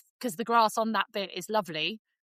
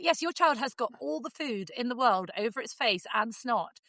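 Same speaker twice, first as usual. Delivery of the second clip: mock exasperated rant; 3 semitones higher than usual. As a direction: rant at a proud parent. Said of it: "And you're like".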